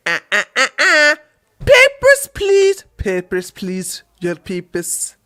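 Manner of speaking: a hint of a German officer demanding papers; mock German border guard asking for papers, lightly done; bad German accent. Airline staff voiced as a mock German guard demanding papers. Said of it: "I need to improve my German accent".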